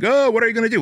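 high-pitched mock crowd "ooh"; goading onlookers. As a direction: imitate a crowd egging someone on. Onlookers goading him, acted out.

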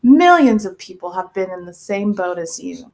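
lightly voiced infomercial pitch; commercial voice. Podcast host reassuring embarrassed listeners, mock commercial voice. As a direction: reassure the viewers like a mock advert. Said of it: "I'm going into my commercial voice".

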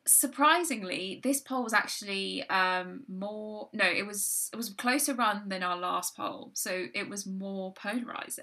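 measured, formal news-anchor read; newsreader voice. Acted. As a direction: present it like the evening news. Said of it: "I love it when you do the newsreader voice".

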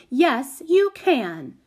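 high, loud, bossy insistence; bossiest voice. A narrator's reading. Prudence overruling the carter, bossy. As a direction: insist high and hard, brooking no argument. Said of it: "in her bossiest voice".

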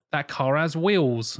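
slow Norfolk dad impression; drawn-out Norfolk lilt; Norfolk accent. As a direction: imitate a broad Norfolk accent, slowly. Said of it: "sometimes he's really Norfolk".

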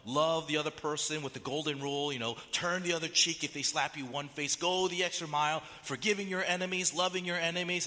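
a hint of a naive Sunday school answer; mock naive churchgoer. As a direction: lightly play the average Christian, sweet and simple. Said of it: "The typical response might go something like this".

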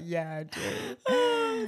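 put-on very high, very slow German-accented "yeah, I do". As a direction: draw it out like a wistful German postman. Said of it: "he has a German accent".

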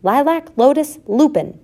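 high, loud calling of names; roll call. A narrator's reading. Mother takes roll call of her litter, calling out. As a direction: call each name out in turn. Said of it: "she took a roll call".

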